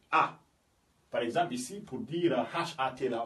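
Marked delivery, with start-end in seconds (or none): 0.1-0.4 "A" as a short open French "ah"; French A sound. Shown as a demonstration. Teacher showing the first sound, French A. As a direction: say "A" as in a French word. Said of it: "comme si on avait un mot en français".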